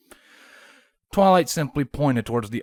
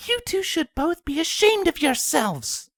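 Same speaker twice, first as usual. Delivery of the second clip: calm but stern. A narrator's reading. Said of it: "she said calmly but sternly".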